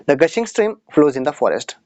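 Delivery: very slow, word by word, as a teacher dictating; deliberate classroom read-aloud; slow example reading. Shown as a demonstration. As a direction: spell the sentence out slowly for the class. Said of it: "reads example sentence for students".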